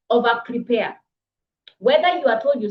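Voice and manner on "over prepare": over prepare, over stressed and firm. Shown as a demonstration. Coach urging speakers to prepare, stress on over. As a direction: hit the word over hard. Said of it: "By the way, I say this".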